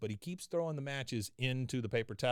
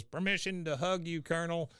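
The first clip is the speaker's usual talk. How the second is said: Dale voice; 5 semitones higher than usual. Retold or imitated. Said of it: "Dale comes over and goes".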